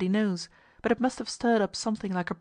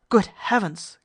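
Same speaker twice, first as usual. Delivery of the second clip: louder, startled exclamation; startled cry; 7 dB louder, slower than usual. Acted. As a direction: cry out in shock at the news. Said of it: "cried the captain".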